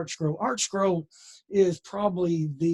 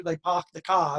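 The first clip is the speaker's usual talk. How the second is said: r-less New Hampshire "park the car", said "pahk the cah"; New England accent. Retold or imitated. Explaining how folks up north say it, in a light New England accent. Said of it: "in New Hampshire".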